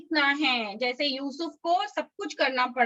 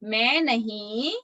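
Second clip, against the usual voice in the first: slow, stretched words with lifted endings; slowly, for repeating; 3 semitones lower, slower than usual. Shown as a demonstration. Teacher leads children repeating the memory verse, slowly. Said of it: "मैं धीरे धीरे बोलूंगी".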